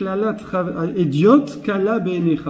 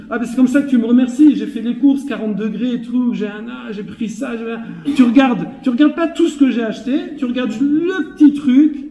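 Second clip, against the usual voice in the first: mock-aggrieved, raised voice, piling up grievances; animated, higher-pitched domestic complaint; indignant husband's retort; 4 semitones higher than usual. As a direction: act out a put-upon husband protesting. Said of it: "Qu'est-ce qu'il va lui répondre".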